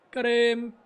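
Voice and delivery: sudden high, loud yelp of joy; excited celebration. Real, not acted. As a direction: streamer yells as he takes the wicket, excited shout. Wicket falls in game.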